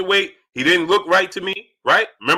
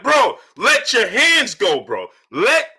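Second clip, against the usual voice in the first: slow, pleading yell that climbs higher; screaming at the TV; 6 semitones higher, much slower than usual. Retold or imitated. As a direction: beg him to throw punches, voice cracking. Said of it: "I'm screaming at the T V".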